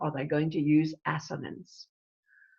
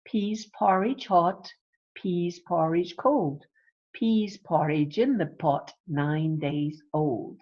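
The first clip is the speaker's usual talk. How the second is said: slow, measured rhyme with pauses between lines; nursery rhyme recital. Shown as a demonstration. Teacher recites a child's nursery rhyme, measured recital. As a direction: recite it line by line, slowing on the last. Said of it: "Look at this child's little nursery rhyme".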